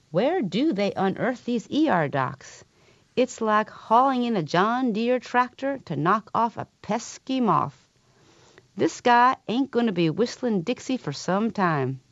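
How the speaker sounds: Tennessee drawl. Retold or imitated. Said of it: "in a slow Tennessee drawl".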